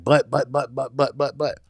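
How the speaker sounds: mimicked string of protests; son protesting. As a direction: imitate a kid butting in over and over. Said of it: "And he's like".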